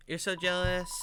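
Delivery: put-on toned-down kid monster character. Kid monster envying the listener, in a toned-down character voice. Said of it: "need to have a different accent for this character".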